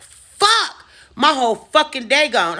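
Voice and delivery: sudden high shocked yelp; startled curse. Retold or imitated. Waking up late and realizing the day is gone, shocked high curse. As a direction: jolt awake in alarm.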